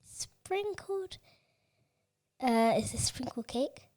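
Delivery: talking while eating; words round a bite of food; mouth full. Real, not acted. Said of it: "What's that you're eating now?".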